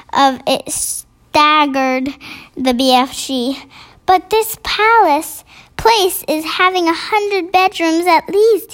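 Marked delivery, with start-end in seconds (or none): 4.0-8.7 a lightly higher giant voice; gentle giant voice. A narrator's reading. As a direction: talk as the kind giant. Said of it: "he said".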